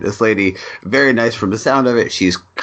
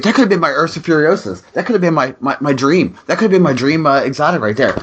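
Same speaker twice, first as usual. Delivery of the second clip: rushed, higher mock despair over loot; fast, high mock lament over a lost exotic drop; gamer lament, fast and high; 5 semitones higher, faster than usual. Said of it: "I'm like".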